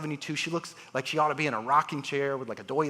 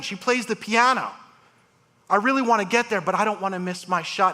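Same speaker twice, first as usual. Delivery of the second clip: lightly voiced grandmother, higher and earnest; patient's plea; 6 semitones higher than usual. Patient telling surgeon about her grandkids, a hint of higher pleading voice.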